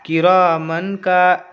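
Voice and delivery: "किरामन का" slowly, with a clear n before "का"; clear n, incorrect. Shown as a demonstration. Teacher shows the reading to avoid, clear n. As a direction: draw out "रा", no nasal hold on "मन". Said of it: "ऐसे पढ़ेंगे नहीं".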